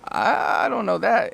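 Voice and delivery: rising "huh?", then high drawn-out hesitation; mock bewilderment, pitch climbing; confused learner. Learner hearing an unfamiliar greeting, high and confused. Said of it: "And then it's like".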